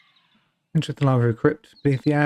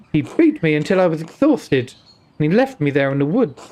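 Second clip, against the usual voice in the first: put-on Indian accent. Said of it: "an Indian accent".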